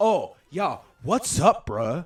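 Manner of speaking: loud, fake American dude-speak accent. Retelling an irish man, about fifty, on a car ride, doing a mock american accent. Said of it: "I can do an accent just like he can".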